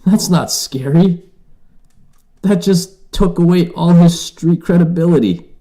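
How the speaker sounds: he hears the scary pirate speak French, high disbelieving squeal; incredulous. Retold or imitated. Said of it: "I was like".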